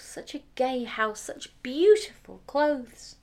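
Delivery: high, loud, fast spoiled princess; cartoon princess. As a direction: gush like a vain pampered princess. Eldest princess voiced in story.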